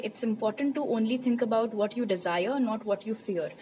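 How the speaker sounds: reading the card's message very slowly and evenly; spirit's card message read aloud slowly. Shown as a demonstration. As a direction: read the quote word by word, letting it land. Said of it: "जो कहता है".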